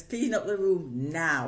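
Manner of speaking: slow, loud command; firm order. Retold or imitated. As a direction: lay down the law. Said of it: "It says".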